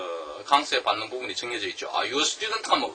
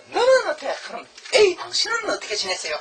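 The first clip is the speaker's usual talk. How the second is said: much higher, loud pointed question; contrastive stress; 14 semitones higher, 4 dB louder than usual. Shown as a demonstration. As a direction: throw the question back with emphasis. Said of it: "여기다 힘을 줄 수 있죠".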